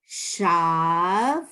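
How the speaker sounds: "Shav" et "ra" détachés, forts, pause entre; staccato. Shown as a demonstration. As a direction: syllabes lentes, séparées, appuyées. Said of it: "let's do line two like that".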